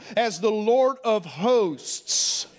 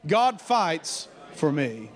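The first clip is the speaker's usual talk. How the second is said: slow and lower: God fights for me; slow, lower call-and-response; 4 semitones lower, slower than usual. Shown as a demonstration. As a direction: say it slowly with the congregation. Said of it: "Say it with me".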